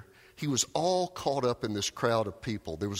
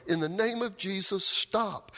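high, insistent call, only mildly raised in volume; acted yell; 9 semitones higher than usual. Telemachus keeps yelling over the frenzied crowd, high acted yell. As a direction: call it out urgently once more. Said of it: "Over and over he kept yelling".

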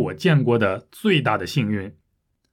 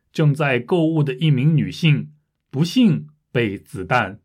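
news story read a bit slower for learners; measured learner-paced reading with more breaks; a little slower. Shown as a demonstration. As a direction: read it slightly slowly, pausing between phrases. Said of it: "第二遍我会读得慢一点儿".

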